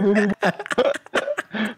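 slow words melting into laughter; laughing. Real, not acted. Gamer laughing after surviving the fall, slow laughing voice.

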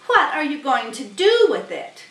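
sly rat asking; Templeton's voice. Acted. Templeton eyeing the goose's egg, sly.

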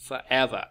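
"forever" as fur-EV-er; careful recap of "forever"; second-syllable stress. Shown as a demonstration. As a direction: keep for unstressed, weight EV in "forever". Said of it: "e được nhấn nè".

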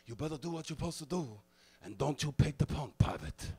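a weaker copy of the sergeant; Francisco's failed imitation. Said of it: "Drill Sergeant Francisco would try to imitate them".

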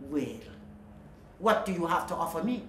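low, fast, sharp witch voice; snapping witch. Acted. Sea witch demanding payment from Melody, snapping. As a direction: snap at her impatiently. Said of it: "the witch snapped".

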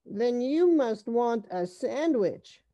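high, lilting offer; smiling mother. A narrator's reading. Mother offers the children food, smiling high lilt. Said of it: "smiled Mother".

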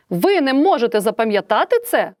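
«ви» stressed in indignant surprise; exclamatory question. Shown as a demonstration. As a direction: ask it with strong emotion. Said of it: "питальне, але окличне". (окличне питання, з обуренням)

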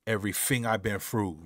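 lightly imitating the singer's British accent; mild British accent. Reactor copies the singer's delivery in a light British accent. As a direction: say it like the singer, with mad conviction. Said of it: "I wanna say it like him".

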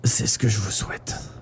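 faint, airy last breath; dying whisper. A narrator's reading. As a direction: whisper a final wish with failing strength. Final wish before death.

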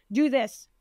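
short orders, each falling at the end; mock demanding. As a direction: imitate curt online orders. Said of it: "Are you demanding?".

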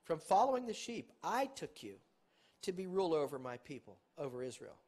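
loud, ringing reading of scripture; preacher declaiming scripture to the congregation; scripture preaching. Acted. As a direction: proclaim the verse like a preacher. Preaching scripture at full force.

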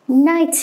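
"Knight" begun straight on the N, K unsounded; silent K. Shown as a demonstration. English teacher showing learners the silent letter, "Knight" with K silent. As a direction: say "Knight" with no K sound at the start. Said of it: "âm ca chính là một âm câm, vì thế chúng ta không đọc".

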